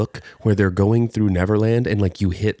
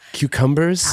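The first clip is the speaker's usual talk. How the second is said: higher announcing call; produce-tossing showman; 6 semitones higher than usual. Acted. Imitating a man flinging produce everywhere, showman call. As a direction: hawk it like a showman handing out prizes. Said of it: "started throwing it everywhere".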